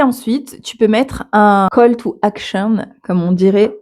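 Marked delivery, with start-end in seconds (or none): 1.7-2.8 "call to action" said in English with a heavy French accent. Real, not acted. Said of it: "avec mon accent pourri anglais".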